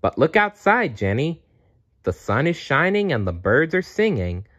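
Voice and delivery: put-on a playful bear cheering up a girl; Funshine Bear.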